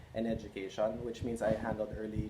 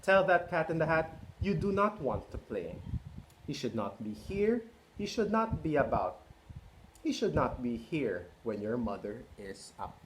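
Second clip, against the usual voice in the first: fish character. Acted. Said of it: "But our fish said".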